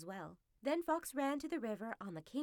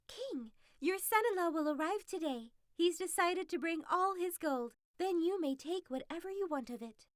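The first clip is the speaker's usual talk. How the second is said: raised, eager fox voice; the fox announcing grand news to the king; a touch of a thrilled fox; fox bringing news; 6 semitones higher, 4 dB louder than usual. Acted.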